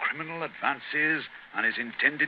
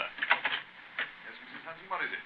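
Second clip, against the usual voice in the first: distant, away from the microphone; far off; 7 semitones higher, 9 dB quieter than usual. Acted. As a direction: speak from across the room. Talking at the door, off-mic.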